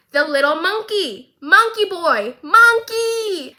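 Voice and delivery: from eager to a high, loud squeal on monkey; growing excitement. Real, not acted. Excited about Jinx's monkey drawing.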